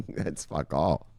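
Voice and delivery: drawn out, very slow and low and soft; a slow, lazy scoff; slow dismissive repeat. Real, not acted. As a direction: let it drag out, unimpressed.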